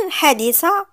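loud, gloating disbelief. Acted. Aunt loudly gloating as she exposes the pregnancy. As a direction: throw the accusation in her face. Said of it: "بديك الشمتة".

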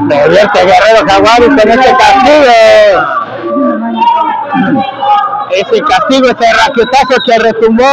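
quick ringside play-by-play; wrestling commentator. Real, not acted. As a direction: call the match live. Live play-by-play of a match. (narrador de lucha libre)

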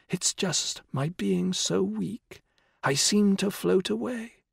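high, slow frail whisper; old woman whispering. A narrator's reading. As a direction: breathe it out weakly. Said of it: "the old woman whispered".

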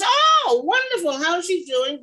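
high, loud, delighted oh; delighted greeting. Retold or imitated. Langston delighted to hear of Helen, high excited greeting. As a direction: gush with pleasure at the name.

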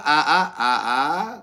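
ordinary delivery

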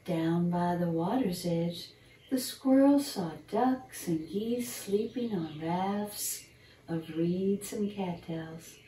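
put-on gentle storybook narration for children; bedtime story reading. Reading a squirrel bedtime story to young listeners, storyteller voice. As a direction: read it like a picture book at bedtime.

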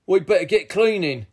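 a touch of nervous urgency; gulped worry. A narrator's reading. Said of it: "gulped Ray".

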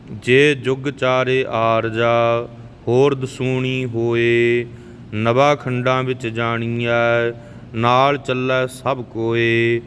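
slow, even devotional recitation of gurbani; scripture recitation. Shown as a demonstration. Teacher reciting Japji Sahib for the learners, calm and even. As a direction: recite each line steadily, like a prayer.

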